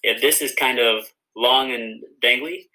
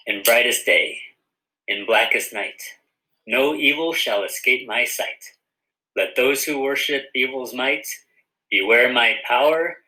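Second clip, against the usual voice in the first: oath recitation. Pretend. Testing the ring with the oath.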